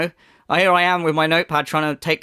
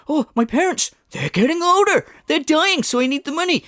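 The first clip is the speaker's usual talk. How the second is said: mock sob story; 11 semitones higher than usual. Commentator mocking the streamer's dying-parents plea, high hammed-up wail. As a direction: wail it like a fake tragedy. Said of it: "you come out in the time go".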